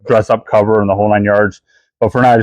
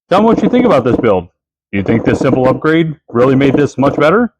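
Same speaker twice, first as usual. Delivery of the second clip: spooky prop voice; 4 semitones higher than usual. Acted. Prop voiced begging for likes.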